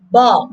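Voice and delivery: "ba" said as BOR, on its own; stressed syllable alone. Shown as a demonstration. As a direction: isolate the stressed BOR of British "laboratory". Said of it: "Here the second syllable is stressed".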